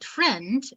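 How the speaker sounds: "friend" said with a rise; rising tone. Shown as a demonstration. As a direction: lift the pitch through "friend". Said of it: "pronounced with a rising tone".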